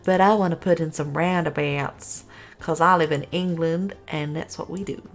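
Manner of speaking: jokey, badly faked English accent; terrible English accent. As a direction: put on a bad English accent. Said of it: "I did a terrible accent there".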